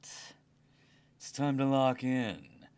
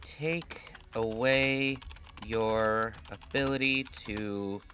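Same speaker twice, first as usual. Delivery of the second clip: mustache twirling villain; slower than usual. Acted. Villain threat to viewers.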